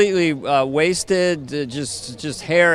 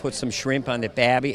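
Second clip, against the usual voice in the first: lower-pitched mock Aussie; Australian accent; 4 semitones lower, 4 dB quieter than usual. Actor teasing Australian interviewer, low mock Aussie accent. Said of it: "get down to Australia".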